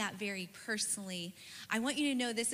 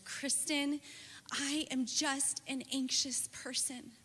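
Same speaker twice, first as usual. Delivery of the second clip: higher, slower, weary exasperation; exasperated; 5 semitones higher, slower than usual. Retold or imitated. Anxious friend in the car, exasperated with herself. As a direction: sigh it out as if at the end of your rope. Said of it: "in an exasperated voice".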